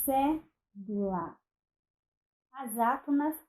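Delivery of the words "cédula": slow example word. Shown as a demonstration. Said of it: "Então, nós temos".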